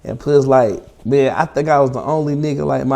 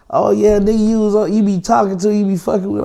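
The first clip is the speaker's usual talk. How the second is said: higher-pitched imitation of a jealous girlfriend; mock accusing; 6 semitones higher than usual. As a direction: throw the accusation at him, retold. Girlfriend accusing him in retold quarrel.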